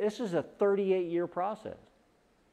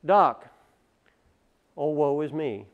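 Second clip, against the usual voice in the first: mock woe to doctor; 4 dB louder than usual. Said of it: "go to the doctor and say".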